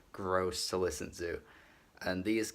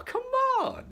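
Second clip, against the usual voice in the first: loud, much higher cry of disbelief; exasperated outburst; 6 dB louder than usual. Real, not acted. Reviewer fed up with the album's fakery, loud exasperation. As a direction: throw up your hands and shout it.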